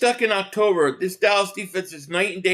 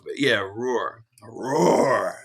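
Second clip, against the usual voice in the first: lazy low roar; 9 semitones lower, much slower than usual. Pretend. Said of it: "We need a roar sound".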